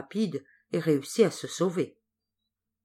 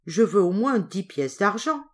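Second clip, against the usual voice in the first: insistent demand; 3 semitones higher, 5 dB louder than usual. Acted. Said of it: "s'écria Jack".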